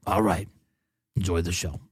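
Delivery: lightly imitated Michigan accent. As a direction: pronounce the verdict in a mock Michigan accent. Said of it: "a very classic Michigan accent".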